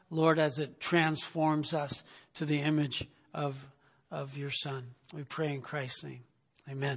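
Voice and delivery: reverent prayer trailing off. Real, not acted. Closing prayer at pulpit.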